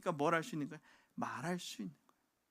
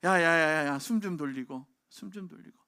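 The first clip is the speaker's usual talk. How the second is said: parent calling out; 9 dB louder than usual. Retold or imitated. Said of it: "그럼 뭐라 그래요?".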